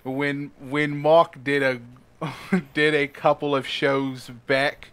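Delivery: lightly put-on Australian accent; a hint of Australian. Shown as a demonstration. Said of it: "That's more Australian".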